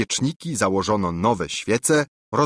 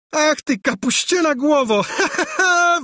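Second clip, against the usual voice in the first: much higher, loud jeering burst of laughter; a princess mocking her cousin with a shrieking laugh; scornful laughter; 5 dB louder than usual. A narrator's reading. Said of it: "wybuchnęła księżniczka szyderczym śmiechem".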